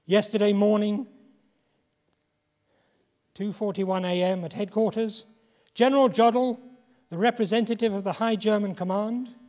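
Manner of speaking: lightly voiced Churchill, proclaiming the surrender; Churchill broadcast. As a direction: declaim it like a radio bulletin. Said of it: "announced in a world broadcast".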